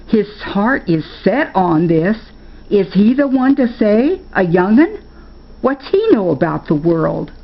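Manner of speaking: a lightly voiced grandma scoffing at the idea; indignant grandma. Grandma arguing back.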